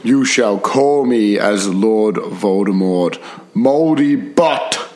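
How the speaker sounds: slow mocking villain voice; sneering panto villain. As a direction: drawl it like a pantomime baddie. Villain voice continues.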